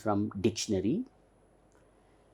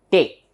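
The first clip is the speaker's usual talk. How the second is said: "te" sounded out clearly and louder; stressed syllable; 3 semitones higher, 5 dB louder than usual. Shown as a demonstration. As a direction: hit "te" firmly as the stressed syllable. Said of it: "this is heard very clearly".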